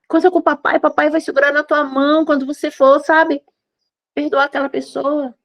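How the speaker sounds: cradle the words, as God speaking to a hurt daughter; a father hushing his daughter with love; tender loving father. Acted. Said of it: "E ele te mima e diz".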